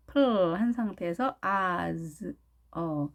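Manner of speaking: 플 held on L, then slow 아즈, 어; sound by sound. Shown as a demonstration. Teacher assembling plaza from sounds, slow 플, 아즈, 어. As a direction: draw out 플, 아즈, 어 piece by piece. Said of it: "입천장에 혀끝을 댄 상태에서".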